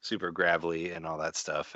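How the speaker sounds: rasped, almost voiceless "super gravelly". Shown as a demonstration. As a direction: scratch it out like a sore throat after covid. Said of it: "we both sound super".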